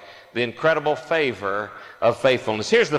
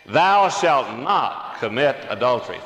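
congregation reading slowly together; slow, solemn group recitation with authority; many voices in unison. Real, not acted. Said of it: "Let's read again".

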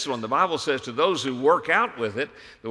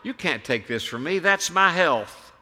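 rising, higher whiny protest; hammed-up childish pleading, climbing higher; mock kicking and screaming; 7 semitones higher, 4 dB louder than usual. Believer mock protesting to the Lord, whiny and rising. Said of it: "kicking and screaming and saying".

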